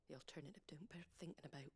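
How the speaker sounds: whisper. Acted. Grim remark about missing carpenter.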